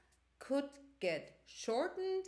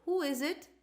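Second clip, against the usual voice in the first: a voice from inside; 5 semitones higher, 5 dB louder than usual. A narrator's reading. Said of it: "Says a voice".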